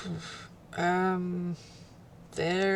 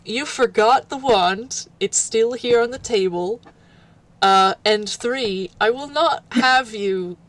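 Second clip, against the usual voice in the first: louder, firmly counting off reasons; firm objection; 3 semitones higher, 5 dB louder than usual. Acted. Companion stopping someone who doesn't know the way, firm objection. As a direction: lay down the objections with more volume. Acted listing of objections to leaving.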